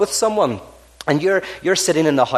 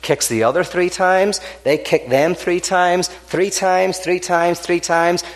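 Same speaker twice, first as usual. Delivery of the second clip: higher, drawn-out Irish explanation; Irish farmer explaining; 5 semitones higher, slower than usual. Acted. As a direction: lay out the rule like a sly old farmer. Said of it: "he says".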